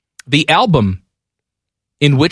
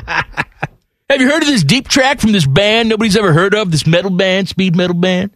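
raised, sniffy hipster voice; lightly mocking snob; 5 semitones higher than usual. Mocking his cohost's obscure music taste. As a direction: brag about obscure bands. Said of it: "T-Bone's too cool for school".

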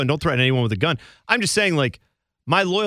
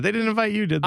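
mock surprise; 8 semitones higher than usual. Teasing fake surprise.

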